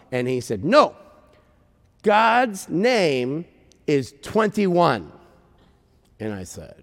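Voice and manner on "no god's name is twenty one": higher no, then slow deliberate explanation; emphatic correction. Retold or imitated. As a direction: correct firmly, spacing out the words. Man firmly corrects her.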